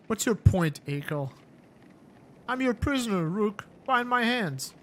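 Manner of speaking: a beaten madman laying blame; bitter warlord. Acted. Akil offers himself prisoner.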